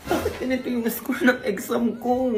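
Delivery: slow, tearful complaint; hammed-up weepy student; crying. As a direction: whine through mock tears. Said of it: "wag ka na umiyak".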